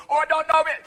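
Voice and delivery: high mock Jamaican accent; hammed-up Jamaican accent; fake Jamaican accent. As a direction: put on a phony Jamaican psychic accent. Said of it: "that Jamaican accent going".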